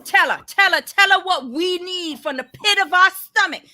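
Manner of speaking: voicing what mom should say; hammed-up parental tirade; imagined mother scolding. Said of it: "And I was just like".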